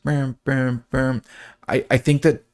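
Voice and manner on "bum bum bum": short repeated mouth-made synth notes; lightly vocalized synth riff; synth imitation. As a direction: mimic the synth pulse in the speaker. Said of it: "it's gonna be in your right speaker".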